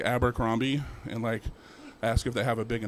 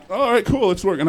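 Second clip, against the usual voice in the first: excited ghost; 7 semitones higher, 5 dB louder than usual. Retold or imitated. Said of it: "I'm all like".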